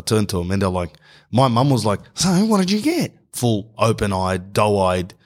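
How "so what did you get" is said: very high-pitched excited mum voice; hopeful mum squealing the question, hammed-up; happy, eager. Mum asking son for exam result, happily expectant.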